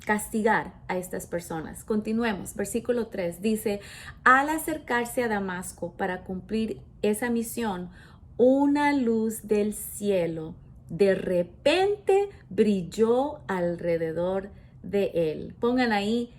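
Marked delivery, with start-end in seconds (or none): 4.2-15.5 scripture reading. Acted. Reads verse from the Bible.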